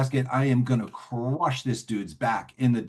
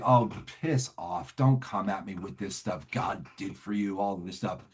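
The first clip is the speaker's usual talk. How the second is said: dismissive scoff; 3 semitones lower, 5 dB quieter than usual. Retold or imitated. Scoffs at talk of God.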